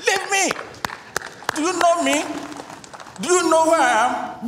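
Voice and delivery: put-on very high, strained voice of a spirit speaking through the girl; possessed woman's voice. Spirit in the girl defies the pharmacist, very high strained voice. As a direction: shriek it out as the spirit inside her. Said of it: "she said".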